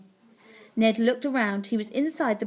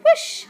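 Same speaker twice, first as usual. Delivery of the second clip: loud whoosh; flying whoosh; 8 dB louder than usual. A narrator's reading. Narrator sends Ned over the wall, loud whoosh. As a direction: burst of rushing air.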